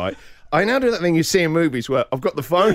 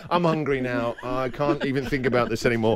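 whiny teen mock; 5 semitones lower, 4 dB quieter than usual. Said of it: "Which one of us is the teenage?".

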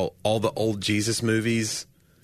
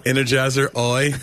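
Jacko impression; 3 semitones higher, 4 dB louder than usual. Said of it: "remember that guy? Jacko?".

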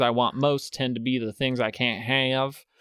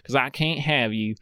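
put-on old Hollywood transatlantic accent, drifting in and out; lightly voiced glamorous old Hollywood star, transatlantic accent. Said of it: "It, uh, shifted there".

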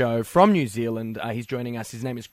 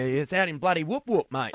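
put-on broad Aussie accent; 3 dB quieter than usual. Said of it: "but with an accent?".

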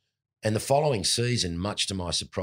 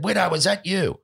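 high, loud startled caller; mock incredulous; 12 semitones higher, 5 dB louder than usual. Old teammate hears the odd phone greeting, high loud disbelief. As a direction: pitch it way up in disbelief.

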